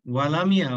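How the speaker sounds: ওয়ালামিয়া, ওয়ালাম and ইয়া slurred into one word; wrong joined reading. Shown as a demonstration. Teacher warning students against slurring ওয়ালামিয়া. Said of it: "ওয়ালামিয়া যদি আমরা একসঙ্গে বলি ... ভুল হয়ে যাবে".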